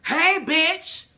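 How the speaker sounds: high, loud mock-friendly hello; imitating an over-bright loud hello; exuberant greeting. Acting out Issa's greeting.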